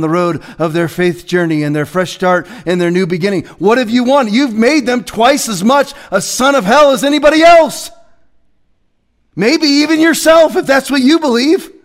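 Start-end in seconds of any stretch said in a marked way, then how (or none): 3.6-11.7 higher and louder, full-force sermon; fiery preaching. Acted. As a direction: preach it hard at the congregation.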